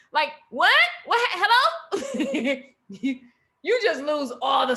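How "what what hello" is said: laughing. Retold or imitated. Mocks the confused listener.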